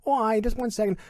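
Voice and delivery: high voice of mom breaking off chat; imitated mom. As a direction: excuse yourself in a high motherly voice. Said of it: "she's talking to us normally".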